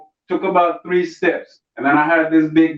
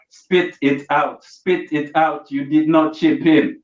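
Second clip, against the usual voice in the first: slow, half-hearted scold to the fly; lightly voiced man patting a fly; mock telling-off, drawn out; slower than usual. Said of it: "talking about".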